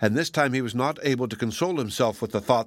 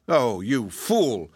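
scolding cry; much slower than usual. Acted. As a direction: drag out the scorn. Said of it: "cried the crow".

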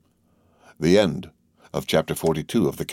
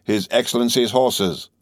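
hoarse cry; 5 semitones higher, slower than usual. A narrator's reading. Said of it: "cried in a hoarse voice".

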